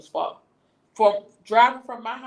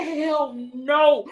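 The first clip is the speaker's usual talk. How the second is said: screaming; 6 semitones higher, 4 dB louder than usual. Retold or imitated. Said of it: "And I'm screaming".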